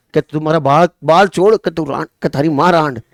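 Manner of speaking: loud, rustic shouting; village brawl shout. Retold or imitated. Teacher acts village quarrel, mock angry shouting. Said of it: "गाँव में होती नहीं होती लड़ाइयाँ".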